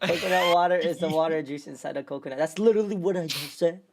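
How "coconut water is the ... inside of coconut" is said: put-on quoting a typed line in a Filipino accent. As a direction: read it fast in a light Filipino accent. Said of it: "You read it in a Filipino accent".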